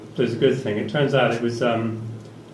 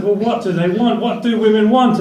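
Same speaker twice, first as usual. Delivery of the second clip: own retort; 9 semitones higher, 4 dB louder than usual. Retold or imitated. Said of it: "And I said".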